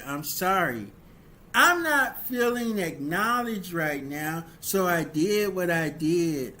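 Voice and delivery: a heated, self-justifying apology that blames the other spouse; defensive bad apology. Spouse excusing the cheating with a hurt, accusing apology. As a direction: play the cheating spouse making excuses, bitter and wounded. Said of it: "These are things that people say and do".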